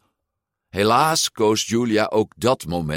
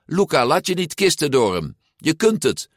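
high, urgent pep talk; calling out encouragement; 8 semitones higher than usual. A narrator's reading. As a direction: urge a friend on. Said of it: "riep Giulia". (aanmoedigend, hoog geroepen)

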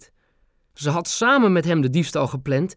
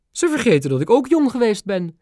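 high, regal grandmother; the queen confiding she's a grandma too; 9 semitones higher than usual. A narrator's reading. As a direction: speak as a touched old queen. Queen voiced by narrator.

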